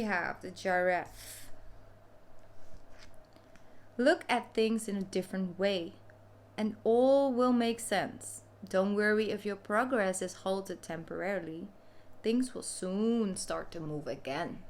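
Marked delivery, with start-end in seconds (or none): 4.0-14.6 card-reading voice. Real, not acted. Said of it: "I don't know why I'm talking like this".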